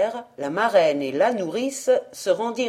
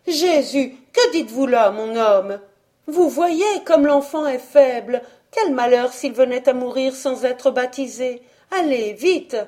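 put-on higher, louder, anxious young woman's voice; urgent pleading wife; 5 semitones higher, 3 dB louder than usual. Worried wife urging her drunk husband, higher and louder. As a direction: beg him to hurry, voice raised high.

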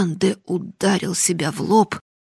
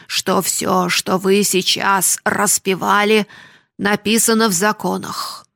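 solemn voice; 5 dB louder than usual. Acted. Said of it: "торжественным голосом".

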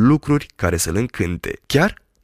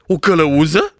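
alarmed cry; 4 semitones higher, 4 dB louder than usual. Acted. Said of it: "strigă doctorul".

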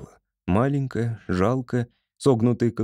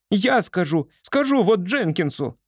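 squeaking; 9 semitones higher than usual. A narrator's reading. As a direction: squeak it down from the branch. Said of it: "запищала с ветки". (пищит с ветки)

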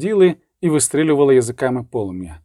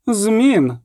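a louder, insistent "Змін"; 8 semitones higher than usual. A narrator's reading. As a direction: raise the voice on this one word. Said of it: "сказала вона голосніше".

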